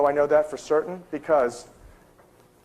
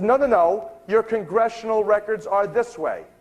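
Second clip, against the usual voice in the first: higher-pitched retold objection; insistent correction; 6 semitones higher than usual. Librarian redirecting the straying researcher, insistent. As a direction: imitate an official steering someone back.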